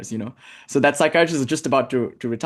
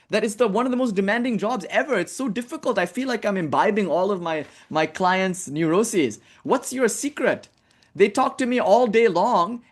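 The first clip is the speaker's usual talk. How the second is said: put-on overwhelmed young psychiatrist; 4 semitones higher than usual. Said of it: "the young one asked the older one".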